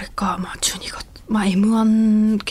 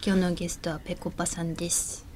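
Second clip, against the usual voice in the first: soft, nasal, breathy Ano-chan imitation; 2 semitones lower, 9 dB quieter than usual. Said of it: "ちょっともう一回やってみて".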